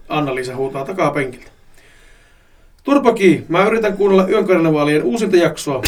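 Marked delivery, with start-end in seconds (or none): 2.8-5.8 louder, higher scolding call; irritated yell. Acted. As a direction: mildly snap at a sister in the back seat. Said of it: "huudan Anna-Liisalle". (ärtynyt huudahdus)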